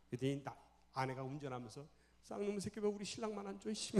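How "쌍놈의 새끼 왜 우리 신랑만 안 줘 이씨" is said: higher-pitched mock cursing; acted indignant wife. Wife driving, cursing husband's childhood friend, acted indignation. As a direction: curse on your husband's behalf, acting it out.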